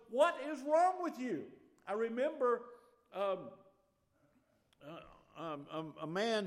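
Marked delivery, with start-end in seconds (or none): 0.1-1.4 much higher, louder mock bewilderment; baffled world. The world questions the peaceful Christian, high mock disbelief. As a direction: voice the puzzled world staring at a Christian. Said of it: "the world looks at you and goes".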